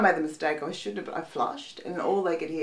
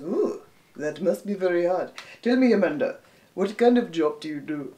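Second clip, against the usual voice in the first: put-on Indian accent. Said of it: "he was Indian".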